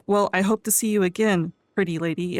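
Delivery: lightly voiced creepy leer. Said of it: "in a very creepy voice".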